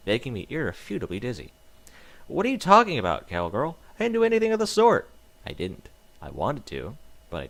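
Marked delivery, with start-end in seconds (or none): 2.3-5.1 high, loud, fast protest; frantic denial; panicked denial. Acted. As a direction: deny it desperately while being shaken. Protesting while shaken.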